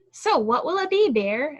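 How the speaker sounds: high, loud, eager hare voice; eager hare asking. A narrator's reading. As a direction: lean in and press the choice. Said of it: "asked Hare".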